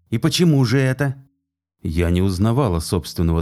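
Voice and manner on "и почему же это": angry. Acted. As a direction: demand an answer, seething. Nathan furious, demanding.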